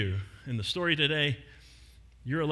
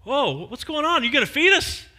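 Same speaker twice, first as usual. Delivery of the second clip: higher, excited hungry calls; eager crowd voices; 10 semitones higher, 6 dB louder than usual. Acted. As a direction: shout from the crowd hoping for food. Crowd members shout questions.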